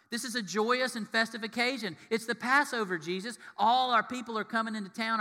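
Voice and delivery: acted-out festive urging; excited protest. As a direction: argue eagerly as a baffled follower. Acts out protest at Jesus crying.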